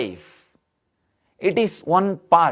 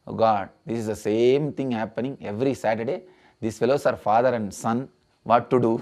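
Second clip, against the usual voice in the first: resigned bartender; 5 semitones lower, 3 dB quieter, much faster than usual. Acted. Weary bartender's aside in joke.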